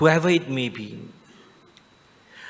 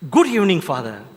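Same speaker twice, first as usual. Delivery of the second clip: gently; 3 dB louder than usual. Shown as a demonstration. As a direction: say good evening gently, warmly. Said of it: "Can say it very gently".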